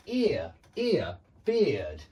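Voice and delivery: "ear" twice then "beard" falling; match the vowel in "ear" and "beard"; careful demo. Shown as a demonstration. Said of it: "same sound as here or ear".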